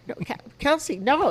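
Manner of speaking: mother pleading with her daughter; frantic mom. Retold or imitated. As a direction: beg the child to stop. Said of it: "And I'm going".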